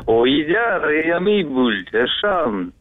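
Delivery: backwards speech. Shown as a demonstration. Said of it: "умеешь поздравить задом наперёд".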